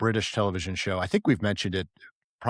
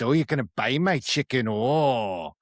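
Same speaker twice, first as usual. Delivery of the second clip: hammed-up ranting old dad, raised pitch; put-on cranky dad voice; Mike Myers's dad character; 4 semitones higher, 3 dB louder than usual. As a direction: rant like a comic movie father with a grudge. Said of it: "his dad".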